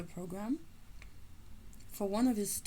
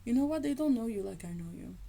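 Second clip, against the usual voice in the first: repeated quote; 2 semitones higher, 4 dB louder, faster than usual. Retold or imitated. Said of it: "This is when you know".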